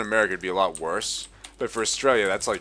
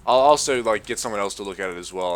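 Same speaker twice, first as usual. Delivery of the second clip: mocking vet; 9 dB louder than usual. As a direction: parody the vet's chirpy offer. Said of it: "she's like".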